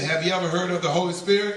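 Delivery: lightly voiced old lady asking; a hint of a kindly old woman.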